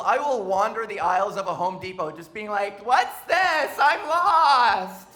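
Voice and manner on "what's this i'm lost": put-on high, helpless girly voice; damsel in distress. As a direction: flutter like a lost, helpless damsel. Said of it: "play up the damsel in distress".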